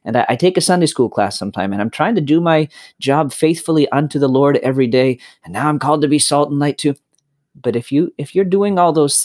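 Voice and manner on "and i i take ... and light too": busy brother. Retold or imitated. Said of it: "the brother who says".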